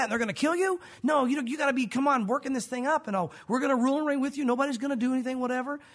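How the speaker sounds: mock rebuke. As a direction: talk him out of it, exasperated. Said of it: "Peter took him aside and began to rebuke him".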